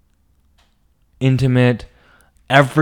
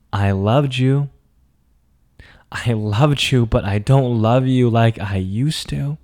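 tearful. Retold or imitated. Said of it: "through all the tears coming out".

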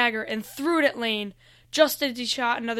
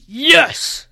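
loud, raised villain's "Yes!"; exultant cry; 4 semitones higher, 11 dB louder than usual. A narrator's reading. Lane watching Noah engulfed by darkness, loud exultant cry. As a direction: cry out in evil triumph.

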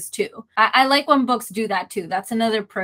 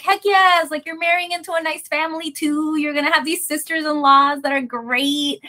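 excited quote; 5 semitones higher than usual. Retold or imitated. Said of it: "where I was like".

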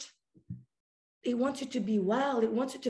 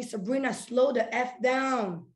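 life scolding her; 2 semitones higher than usual. Pretend. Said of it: "life telling me".

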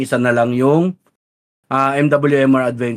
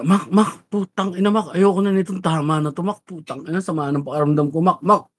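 whiny, laughing stoned plea; 5 semitones higher than usual. Pretend. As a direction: play it high and miserable. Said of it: "na sabog pa ako".

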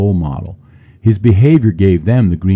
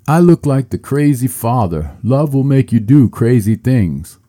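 emotional speech; 6 semitones higher, 6 dB louder than usual. Retold or imitated. Quoting Smith's tearful acceptance speech.

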